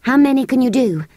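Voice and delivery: put-on eager girl.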